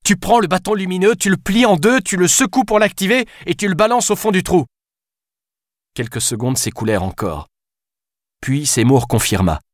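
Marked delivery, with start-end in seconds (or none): 0.0-4.7 raised voice. A narrator's reading. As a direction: spell it out with mild exasperation. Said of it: "Alice haussa le ton". (Alice exaspérée hausse un peu le ton)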